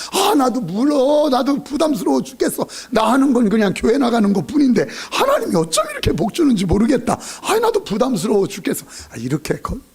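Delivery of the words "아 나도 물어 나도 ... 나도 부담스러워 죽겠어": hammed-up, raised protest at one's luck; mock bewildered humblebrag. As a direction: play overwhelmed by too many blessings. Acted boast disguised as burden.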